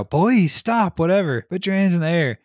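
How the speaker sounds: retelling a game partner yelling at a fleeing suspect, loud and high; mock police shout. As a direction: bark it like a game cop. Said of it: "your guy shouts".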